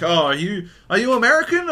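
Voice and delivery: high, curious broken-English question; rising mock broken-English query. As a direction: imitate a foreigner asking eagerly. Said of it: "it's super broken English".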